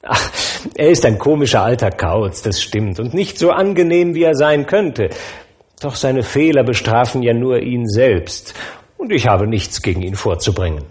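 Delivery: forgiving nephew, easygoing; a hint of a jovial young man; good-natured nephew. Nephew's voice defending Scrooge.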